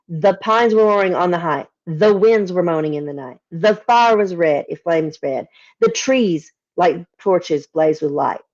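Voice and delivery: slow, measured recitation of verse; poem reading. Acted. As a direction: read it like an old ballad, savouring each line. Rereading to show anaphora.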